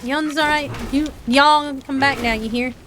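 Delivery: imitated Appalachian accent, words run together; lightly acted Appalachian dialect; Appalachian old-timer. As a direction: imitate old mountain folk's Appalachian greeting. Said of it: "they're like".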